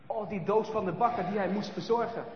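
ordinary delivery, nothing marked

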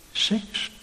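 hushed, almost breathless whisper. Real, not acted. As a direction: drop to a whisper on one word. Naming a taboo word from pulpit.

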